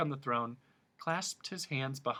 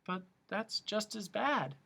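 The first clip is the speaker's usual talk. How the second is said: protesting; 9 semitones higher than usual. A narrator's reading. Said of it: "protested Milo".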